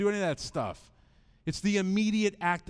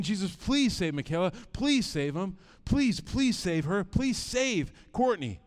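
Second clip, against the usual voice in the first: desperate prayer; 3 semitones higher than usual. Retold or imitated. Father praying for his kids' salvation, desperate pleading. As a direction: beg God earnestly, stretching the key pleas. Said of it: "I remember praying that desperately".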